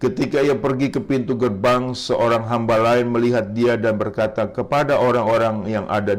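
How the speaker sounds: steady narration with lifted quotes; scripture reading. Acted. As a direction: read the Gospel story out to the congregation. Reads scripture aloud.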